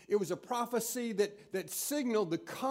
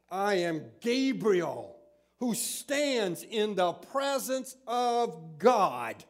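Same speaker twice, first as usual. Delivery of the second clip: stern Gabriel; slower than usual. Acted. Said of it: "sounds just like my mama".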